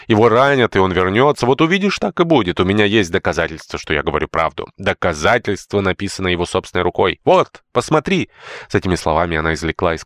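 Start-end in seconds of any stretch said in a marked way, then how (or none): 0.1-8.3 excited insistence. Acted.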